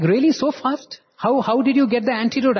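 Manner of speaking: high, startled questions; surprised disbelief. Retold or imitated. The boy to his friend, stunned the antidote arrived so fast. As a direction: retell the boy's amazement, pitch jumping up.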